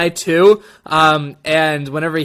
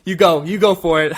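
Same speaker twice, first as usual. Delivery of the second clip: higher-pitched, flustered surrender, easing off; giving up; 4 semitones higher than usual. Acted. Host voicing a character after being impaled, giving up. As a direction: blurt it out, ready to hand over control. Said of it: "I thought, it's like".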